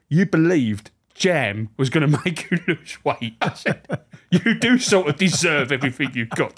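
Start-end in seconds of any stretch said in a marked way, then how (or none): 0.1-3.3 slow, laughing mock scolding; laughing tease. Teasing the prisoner. 4.3-6.5 a laugh through the dig; laughing tease. Retold or imitated. Teasing the prisoner.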